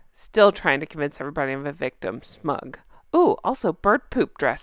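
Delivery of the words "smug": smug caption. Pretend. One-word smug caption.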